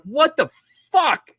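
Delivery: high, startled curse; shocked. Retold or imitated. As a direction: jolt awake in disbelief. Waking confused at base.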